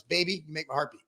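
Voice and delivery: low, soft corny come-on line; cheesy pickup line. Shown as a demonstration. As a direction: croon it like a cheesy flirt. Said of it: "here's a pickup line".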